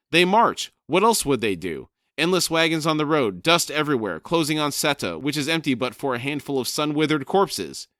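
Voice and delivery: loud, high furious squawking shout; shouting raven. Acted. Crone shrieking at Brood to find Rake, loud and high.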